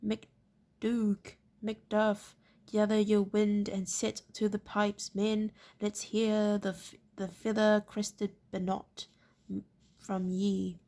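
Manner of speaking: hammed-up northern captain yelling while running; shouting as he ran. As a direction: bellow orders to the pipers in a northern accent. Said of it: "shouting as he ran".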